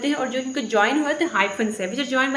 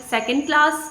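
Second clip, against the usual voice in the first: "second class" with the weight on class; stress on CLASS; 4 semitones higher than usual. Shown as a demonstration. Teacher giving a compound example, stress on class. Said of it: "the stress is on the class".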